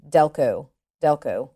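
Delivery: Delco drawn out slowly, local Pennsylvania vowels; Delco in Delco accent. Shown as a demonstration. Teaching the interviewer, Delco in local accent. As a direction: Delco said the Delaware County way. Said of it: "they say".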